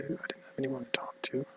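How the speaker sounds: soft, broken whisper; whispering that there was nobody; lonely whisper. Real, not acted. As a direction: barely voice it, alone. Alone after the news.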